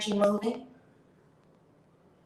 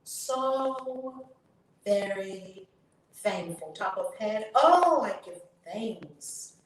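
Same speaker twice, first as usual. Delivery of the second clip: tapping affirmation lead; much slower than usual. Acted. Tapping coach leading viewers through affirmations, slow chanting lead.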